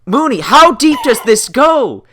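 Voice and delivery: exasperated rant played for laughs; mock exasperation. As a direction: play up the baffled outrage, loudly. Comically exasperated interruption about the same answer.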